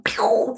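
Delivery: playful "pew" sound effect; imitated bursting noise. Showing how spring will burst forth, playful launch noise. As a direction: make a little whoosh of something shooting up.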